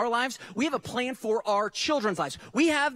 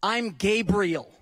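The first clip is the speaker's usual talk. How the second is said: slow, weighty, a touch louder; solemn angel introduction; 4 dB louder, slower than usual. Retold or imitated. Preacher voicing Gabriel introducing himself, slow and weighty. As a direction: announce the name like a grand reveal. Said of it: "this angel decides to introduce himself and he goes".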